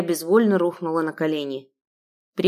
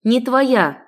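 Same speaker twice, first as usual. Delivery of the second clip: defiant cry; 5 semitones higher, 4 dB louder than usual. Acted. Heroine repeats defiance.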